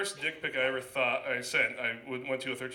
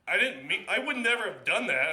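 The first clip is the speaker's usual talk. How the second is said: panicked apology; 7 semitones higher, 6 dB louder than usual. Retold or imitated.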